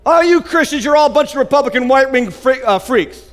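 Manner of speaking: lightly acted high-pitched accusation; mock accusing unbeliever. Preacher imitating an unbeliever dodging Jesus, mock-accusing. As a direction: toss out a mock insult to change the subject.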